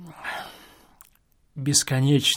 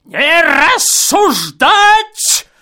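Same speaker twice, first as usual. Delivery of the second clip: put-on slow, loud, higher old man's command; 11 dB louder, much slower than usual. A narrator's reading. Old man behind the wall silences the guest, stern. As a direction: order like a cranky old man. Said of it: "старческий охрипший голос".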